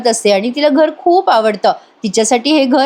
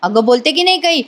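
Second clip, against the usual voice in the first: raised pitch, mock scolding at normal volume; retold yell; 4 semitones higher than usual. Aunt questioning the frightened girl, retold yell. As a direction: press the child for an answer. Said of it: "वसू आत्या ओरडून म्हणतात".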